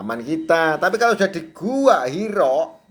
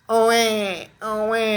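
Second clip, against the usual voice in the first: baby cry imitation; 6 semitones higher than usual. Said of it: "Taunya nangis".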